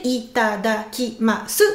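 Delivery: itadakimasu spread slowly over its six syllables. Shown as a demonstration. Teacher breaking the word into syllables, slow. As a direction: lay out each syllable of itadakimasu. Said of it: "six syllabes".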